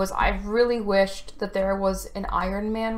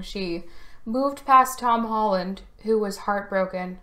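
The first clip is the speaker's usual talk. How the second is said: fighting back tears as you speak; choking up. Real, not acted. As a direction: voice catching with tears. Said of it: "I'm choking up talking about this".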